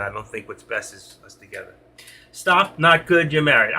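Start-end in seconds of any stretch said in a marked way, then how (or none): 2.3-3.7 reading a comment aloud. Retold or imitated. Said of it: "I heard you, Lady Gray".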